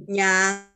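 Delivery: NYANG lifting at the end; drawn-out rising "Nyang"; rising second tone. Shown as a demonstration. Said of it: "nada dua itu dia akan naik".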